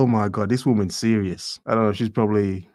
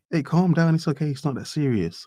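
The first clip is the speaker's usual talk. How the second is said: higher, soothing mock voice brushing it off; mock dismissive man; 5 semitones higher than usual. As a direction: pretend to calm a panicking woman, lightly. Mocking dismissive men's response.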